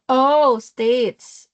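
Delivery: an emphatic "oh" of understanding; dawning realization. Retold or imitated. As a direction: act out suddenly getting the word. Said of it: "States pala yun".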